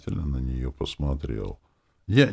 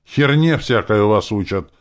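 louder and higher, an angry father exploding; outraged outburst at the table; blurted out angrily; 7 semitones higher, 10 dB louder than usual. A narrator's reading. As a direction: fire it out in one burst. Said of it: "выпалил Володя".

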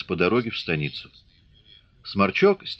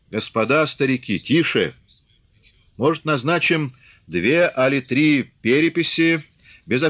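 raised, bantering village voices; rowdy Cossack crowd; 5 semitones higher than usual. Acted. Cossacks argue at the assembly, raised and rowdy.

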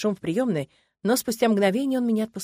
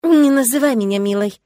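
louder and higher, biting each word out; angry through teeth; 4 semitones higher, 10 dB louder than usual. Acted. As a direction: hiss it at him through your teeth, near tears. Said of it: "зло цежу я". (зло, сквозь зубы, громко)

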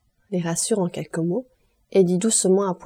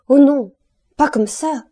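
high, loud protest, sharp and sudden; panicked mother stopping her husband, high and loud; shrill cry of alarm; 7 semitones higher, 7 dB louder than usual. Acted. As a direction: cry out high as he goes wrong. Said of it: "d'une voix aiguë".

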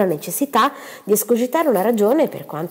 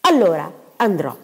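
victim's voice. Acted. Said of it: "con la voce di una vittima".

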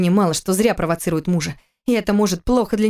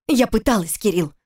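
raised, with a sarcastic smile; 3 semitones higher than usual. Acted. Wife answering husband with a biting smile. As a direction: smile through the sting. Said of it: "ответила она с язвительной улыбкой".

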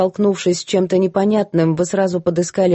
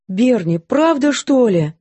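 higher, startled question; gasping; 5 semitones higher, slower than usual. A narrator's reading. Maid gasping at the cook's guilt, surprised. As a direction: gasp it out in disbelief. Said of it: "ахнула Мэри".

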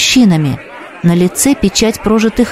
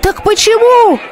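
higher, demanding yell; crowd yell; 13 semitones higher than usual. Acted. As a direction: shout back at the seer. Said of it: "заорали ему в толпе". (выше, требовательный крик)

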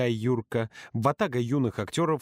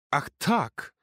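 raised, indignant protest; furious outburst; 5 semitones higher, slower than usual. Acted. Юрка furious at being left to babysit, angry outburst. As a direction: spit it out in outrage. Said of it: "взбесился Юрка".

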